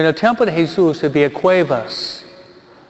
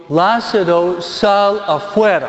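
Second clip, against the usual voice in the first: high, slowed command into the tomb; commanding call; 4 semitones higher, slower than usual. Acted. Jesus orders Lázaro out of the tomb, high slow command. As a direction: call the dead man out with authority.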